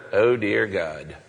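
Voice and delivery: mock a wishy-washy prayer; lightly mocked meek prayer; timid half-hearted prayer. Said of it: "He hates the kind of prayer".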